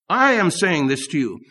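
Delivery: "I" stretched out at the start; stress on I. Retold or imitated. Preacher voicing God's Son to the congregation, stressed "I". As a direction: hold "I" long, then let the rest fall. Rephrases the quote, stressing the speaker.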